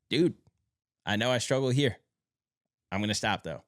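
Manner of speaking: with conviction. Acted. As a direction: own up with purpose and drive. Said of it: "speaking about it with conviction".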